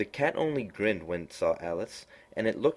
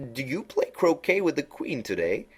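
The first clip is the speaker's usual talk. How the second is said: Cheshire Cat voice; 8 semitones higher than usual. A narrator's reading. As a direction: purr it out like a sly grinning cat.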